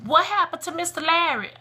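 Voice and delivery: lightly acted child wanting an answer from Mama; young son asking. Son asking his mother about her vanished date, innocently curious. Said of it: "Kobe like".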